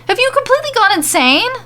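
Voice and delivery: high, fast, furious scream. A narrator's reading. Mandy screaming at Corbin, furious. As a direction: hurl it at him in disbelief. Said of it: "she screams at him".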